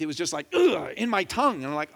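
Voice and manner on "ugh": short grunt imitating a poke; imitated jab noise. Patient mimicking the hygienist's poke, grunted. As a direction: grunt out the jab of a dental pick.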